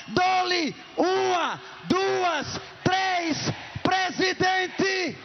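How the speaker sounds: slow auction count, shouted; auctioneer. Acted. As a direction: call it like an auctioneer going once, twice. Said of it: "auction count repeated".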